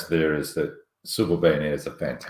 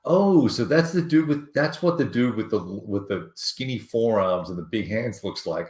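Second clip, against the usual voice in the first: higher, slow, surprised fan voice; imitating a fan; 5 semitones higher than usual. Fan meets the host in person, mock surprised. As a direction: mimic the guy meeting him face to face.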